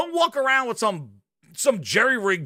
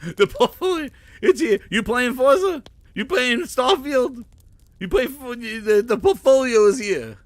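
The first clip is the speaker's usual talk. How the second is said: mock echo. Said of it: "So I love the fact that the portfolio's".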